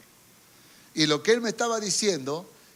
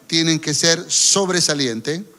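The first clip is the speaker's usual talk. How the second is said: slow, louder declaration to the neighbour; congregation call-out; 6 dB louder, slower than usual. Acted. Preacher leads the congregation to tell their neighbour, slow and louder. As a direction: proclaim it to the person beside you. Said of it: "Dígale que está a su lado".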